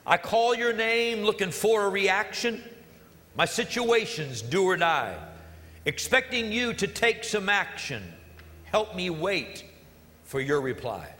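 slow, spoken song lyrics; slow lyric recitation; reciting lyrics. Shown as a demonstration. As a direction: read the lyrics slowly, savoring them. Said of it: "I love the words to that song".

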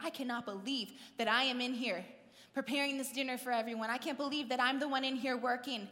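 mildly indignant inner grumble; worked up. Retold or imitated. Martha in the kitchen preparing dinner alone, mock worked-up grumbling. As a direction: imitate someone stewing over unfair work. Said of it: "getting herself all worked up".

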